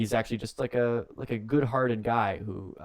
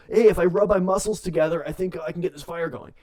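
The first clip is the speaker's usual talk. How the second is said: mock boastful Vince; 7 semitones higher, 6 dB louder than usual. Vince McMahon quoted mid-chaos.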